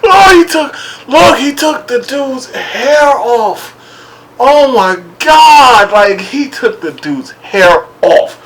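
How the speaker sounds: high, slow laughing retelling; laughing disbelief. Real, not acted. Vlogger recovering from laughter telling viewers, laughing. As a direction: still cracking up as you say it.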